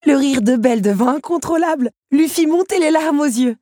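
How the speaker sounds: loud, high animated narration; building to a high, breathless-with-delight peak; hilarious excitement. A narrator's reading. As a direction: tell the pratfall with mounting glee. Narrating Belle's uncontrollable laughing fit.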